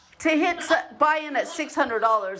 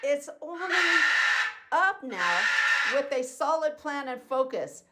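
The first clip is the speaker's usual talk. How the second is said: mocking like an idiot; 5 semitones higher than usual. Client mimicking his money manager's text, mildly mocking. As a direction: parrot her words to make her sound foolish. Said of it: "she says this like an idiot".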